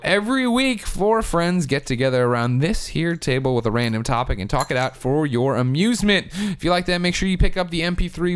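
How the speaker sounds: upbeat show-host sign-off; host outro read. Acted. Host wrapping up the podcast for viewers, announcer voice.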